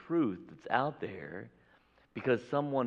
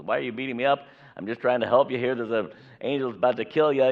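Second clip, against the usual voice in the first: donkey's plea; 3 semitones higher, 8 dB louder, faster than usual. Acted. Donkey pleads with Balaam.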